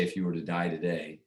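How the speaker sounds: matter-of-fact, "die" left unstressed; no emphasis on die. Shown as a demonstration. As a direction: say "die" as lightly as the words around it. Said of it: "I don't emphasize the word die".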